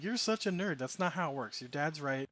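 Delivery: mildly exasperated, voice lifted at first; imitating a mom who has had enough; fed up. Mom fed up with her daughter's Pokemon theory, mock exasperation. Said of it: "like, fed up with it".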